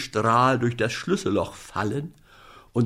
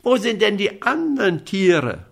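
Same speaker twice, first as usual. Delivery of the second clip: calling up; 8 semitones higher than usual. Acted. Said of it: "rief der kleine Häwelmann".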